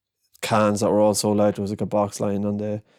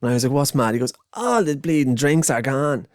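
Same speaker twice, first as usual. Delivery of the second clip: put-on higher, cheeky young Dublin kid voice; 4 semitones higher than usual. Narrator quotes the cheeky Dublin boy, higher and chirpy. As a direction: play a chatty seven-year-old. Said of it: "he was".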